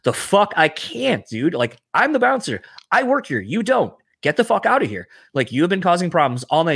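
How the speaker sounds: indignant retort, pitched high without much volume; retold yelling. Bouncer rebuking a troublemaker in his bar, retold yelling. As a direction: re-enact laying down the law. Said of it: "if I'm yelling at you".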